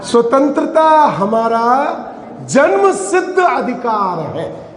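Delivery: slow slogan, each phrase drawn out; Gandhi. Retold or imitated. Preacher quoting a freedom slogan to listeners, slow declaration. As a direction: declare it slowly like a famous slogan. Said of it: "Gandhi जी का क्या वाक्य था".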